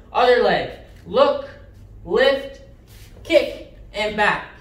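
loud, punchy drill calls; sharp martial arts commands. Shown as a demonstration. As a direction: bark each cue like a coach.

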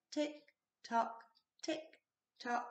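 a quiet steady clock in the night; soft clock tick. A narrator's reading. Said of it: "went the living room clock".

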